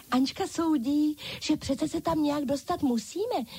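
high, bright chorus of dolls echoing Ančka; dolls calling out. A narrator's reading. Dolls echoing Ančka, high eager chorus. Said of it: "zvolali všechny ostatní panenky".

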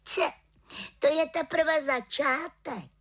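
high, slow proud witch voice; boasting little witch. A narrator's reading. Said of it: "prohlásila malá čarodějnice". (chlubivá malá čarodějnice)

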